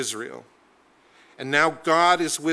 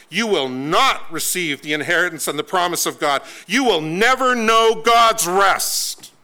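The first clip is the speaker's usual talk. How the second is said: louder, rising stern verdict; God's judgement; 3 semitones higher, 4 dB louder than usual. Retold or imitated. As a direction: build into a furious pronouncement. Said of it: "God looked at his people and said".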